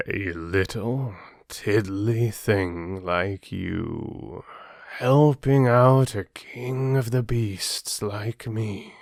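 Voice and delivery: a lightly voiced lion, slow and unhurried. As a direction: play the lion sparing the mouse, lightly done. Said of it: "Lion replied".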